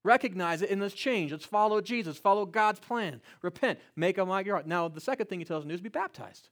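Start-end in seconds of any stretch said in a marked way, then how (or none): 0.0-4.7 preaching urgency. Retold or imitated. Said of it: "That's what Peter says".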